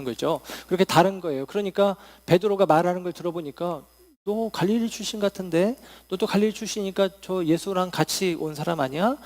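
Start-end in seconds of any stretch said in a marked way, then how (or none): 4.2-9.2 mildly pressing, suspicious question; accusing questioning. Acted. Preacher voices bystander challenging Peter about Galilee, mildly accusing. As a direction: press them for an admission. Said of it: "따져 묻는 것입니다".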